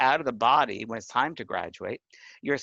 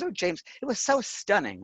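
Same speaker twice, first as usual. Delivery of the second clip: friend's voice; 7 semitones higher than usual. Retold or imitated. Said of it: "and she was British".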